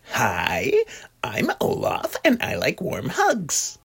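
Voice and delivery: cheerful cartoon snowman introducing himself; Olaf. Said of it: "Olaf will sound like this".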